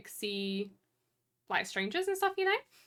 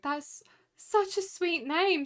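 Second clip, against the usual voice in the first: slow, higher, gushing mock barista; imitating sweet barista; 8 semitones higher, much slower than usual. Barista praising the customer's name, slow high gush. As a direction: stretch it out, charmed by the name. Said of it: "She was like".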